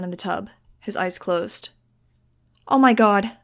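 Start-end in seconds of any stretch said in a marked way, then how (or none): 2.7-3.4 loud, alarmed outburst; panicked. A narrator's reading. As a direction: blurt it out in panic. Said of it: "I panicked".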